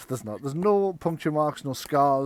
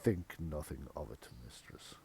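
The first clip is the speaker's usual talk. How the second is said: very low, soft, long-suffering servant; deep weary murmur; weary butler; 10 semitones lower, 13 dB quieter than usual. Acted. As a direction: sigh the words out like a put-upon butler. Butler answers mistress.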